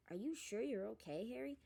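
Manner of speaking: anxious. Acted. A mild anxious Hermione voice. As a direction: ask with worry. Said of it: "watching Harry anxiously".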